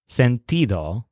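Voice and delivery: sentido with the ti syllable stressed. Shown as a demonstration. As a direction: say sentido leaning on ti. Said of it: "with a stress on T".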